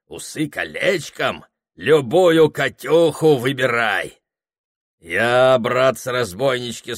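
loud, slow, swaggering brag rising to a whoop; a drunk tramp showing off to the gang; boastful tramp. Acted. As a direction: tramp bragging about three brides, rowdy and loud. Filka boasts of future brides.

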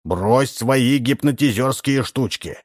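slow, high stern warning. Acted. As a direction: scold him slowly and firmly. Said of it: "строго сказал Удалов".

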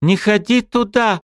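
slow, high, winded plea; out of breath. A narrator's reading. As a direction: pant it out after running. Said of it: "запыхавшись".

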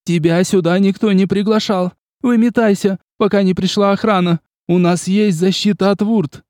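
high and loud, frantic; hysterical shouting. A narrator's reading. Agnes threatening the vampire, shouting. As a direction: keep screaming at the intruder. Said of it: "истерично закричала Агнес".

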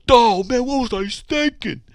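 loud, high mock dismay; imagined regretful emailer. Host imitates an emailer rereading their own mail, mock dismay. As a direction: cry out in hammed-up realization. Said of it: "imitate 'em, but I don't know".

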